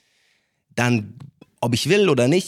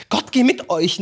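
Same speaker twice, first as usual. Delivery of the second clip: mock blessing grandma; 10 semitones higher than usual. Grandma blessing with holy water.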